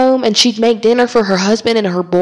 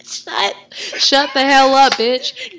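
laughing; 5 semitones higher, much slower than usual. Acted. Mock fury while laughing.

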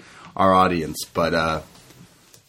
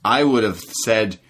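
imitating DDP; 2 semitones higher than usual. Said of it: "He says".

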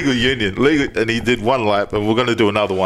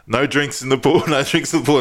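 repeated rule, slightly raised pitch; pool announcement; 3 semitones higher than usual. Retold or imitated. Staff warning swimmers over the announcement, imitated announcer. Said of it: "over the announcement, they were like".

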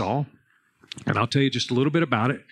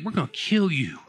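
laughing; 3 semitones higher than usual. Retold or imitated. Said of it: "You know what they're thinking?".

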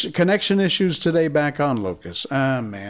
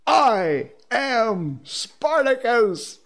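high, slow, drawn-out proclamation; slow, raised mock battle cry; crowd yell; 9 semitones higher, much slower than usual. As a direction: chant it like the whole room joining in. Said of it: "and yelled".

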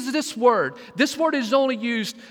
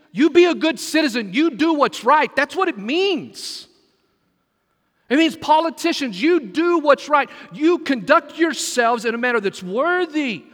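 higher and louder, driving it home; preaching at full force; 5 semitones higher, 4 dB louder than usual. Real, not acted. Preacher urging the church to be good citizens, loud and high. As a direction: raise it and press the point.

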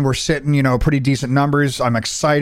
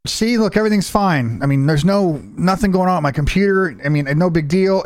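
breezy reassurance; 7 semitones higher than usual. Retold or imitated. Reassures chat before the crash.

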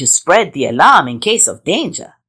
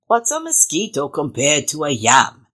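lazy hissy iguana; 4 semitones lower, 4 dB quieter than usual. Acted. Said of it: "snapped the iguana grumpily".

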